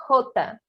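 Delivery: "Jota" with a throaty H at the start; Spanish letter name. Shown as a demonstration. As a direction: say "Jota" the Spanish way, like "rota" in Portuguese. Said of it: "Por isso que o nome é".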